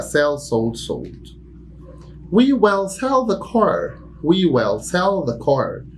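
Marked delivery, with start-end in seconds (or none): 2.3-4.0 slow and high, "we" stressed; slow model sentence. Shown as a demonstration. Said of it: "teacher demo". 4.2-5.9 slow repetition; slow repeat. Shown as a demonstration.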